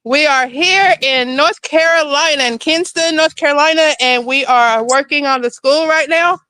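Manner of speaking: winded, catching breath between words. Real, not acted. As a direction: talk while still short of breath. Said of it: "I'm out of breath".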